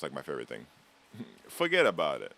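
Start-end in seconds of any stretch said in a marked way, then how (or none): 1.5-2.3 lightly imitated Italian-American mobster; a quick mock mobster accent. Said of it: "but the mobster accent's".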